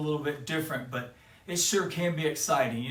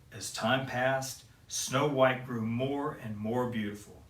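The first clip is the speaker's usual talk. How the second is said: gentle read-aloud telling; storybook narration. A narrator's reading. Papa Bear reading Snow White to kids, gently. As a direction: tell it like a bedtime fairy tale.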